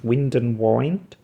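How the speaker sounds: slow "Wind and wind." with a short i, then a long i; two pronunciations. Shown as a demonstration. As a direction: say "Wind and wind." as the breeze, then as winding up. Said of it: "they've just got two different pronunciations".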